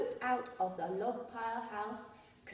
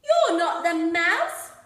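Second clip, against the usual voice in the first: high, loud disbelieving squeak; startled little voice asking; surprised child; 6 semitones higher, 13 dB louder, slower than usual. Acted. Gruffalo's child surprised to meet the snake, high loud squeak.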